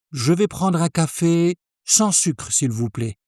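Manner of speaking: fluent café order; full order in one go. Shown as a demonstration. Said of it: "try putting it all together in one go".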